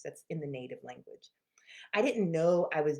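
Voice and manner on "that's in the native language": whispered aside. Real, not acted. Aside about family habits.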